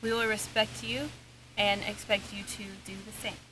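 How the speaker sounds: talking to a ghost. Real, not acted. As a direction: address the spirits respectfully. Opening a spirit session.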